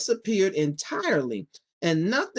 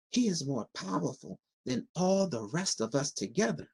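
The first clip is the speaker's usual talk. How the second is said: soft, hushed secret; a witch hushing her voice about the great wizard; whisper; 2 semitones lower, 6 dB quieter than usual. A narrator's reading. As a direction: lean in and whisper it. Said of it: "sinking her voice to a whisper".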